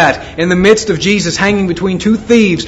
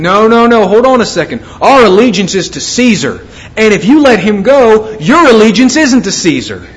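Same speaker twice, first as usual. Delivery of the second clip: mildly raised, insistent protest; acted objection; 3 semitones higher than usual. The Jews pressing Pilate on loyalty to Caesar, insistent objection. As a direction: cut in to object, voicing a crowd's argument. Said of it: "here we have the Jews saying".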